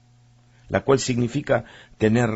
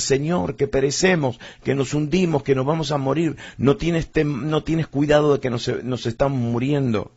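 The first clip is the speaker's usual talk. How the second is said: mock panicked cry; 4 semitones higher than usual. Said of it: "empezaron a gritar".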